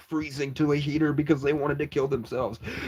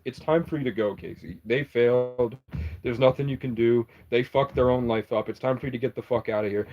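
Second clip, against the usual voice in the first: lower, a touch hushed, lightly voiced spirit; mysterious voice; 3 semitones lower than usual. A hint of a spirit voice telling Casey to leave. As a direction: say it as a calm unseen presence. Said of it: "something says".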